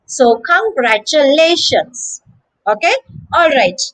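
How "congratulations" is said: congratulations, slowed, with the weight on LA; careful congratulations stressed on "lay". Shown as a demonstration. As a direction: lean on the fourth syllable, congratu-LA-tions. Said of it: "The stress is on lay".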